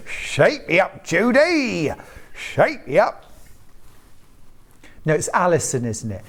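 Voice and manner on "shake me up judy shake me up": lightly voiced little slug; a hint of the slug voice, higher; snail voice. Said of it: "in your small voice, snail voice".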